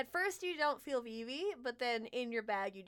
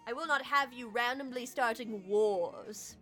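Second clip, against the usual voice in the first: cold sweet ancient calm; 2 semitones higher, 5 dB louder, slower than usual. Acted. Fey lord warning.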